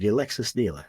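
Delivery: lightly imitated British car-ad voice; a touch of British announcer; British accent. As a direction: mimic a British luxury dealership ad. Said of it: "that was the voice accent that they would use".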